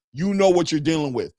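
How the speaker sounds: normal talking voice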